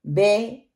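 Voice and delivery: बे with a spread E instead of short I; majhool vowel. Shown as a demonstration. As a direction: widen the vowel of बे into E. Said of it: "उसको हम मजहूल पढ़ देते हैं".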